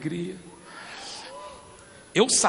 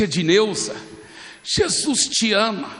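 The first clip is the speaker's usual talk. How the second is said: slow, raised declaration; speaking up for a crowd; 2 semitones higher than usual. Retold or imitated. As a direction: proclaim it so a crowd can hear. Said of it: "eu falei bem alto pra multidão ouvir".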